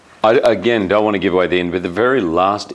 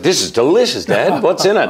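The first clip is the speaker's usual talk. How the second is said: put-on eight-year-old daughter; 6 semitones higher than usual. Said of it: "And she was like".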